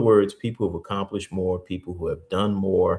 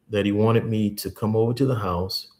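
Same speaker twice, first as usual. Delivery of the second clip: usual speaking voice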